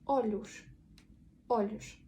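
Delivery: ОЛЮШ ending in a hushing SH; final S as SH. Shown as a demonstration. Teacher demonstrates word-final S, ОЛЮШ with SH. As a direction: finish ОЛЮШ on sh, never s. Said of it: "вимовлятися як ш".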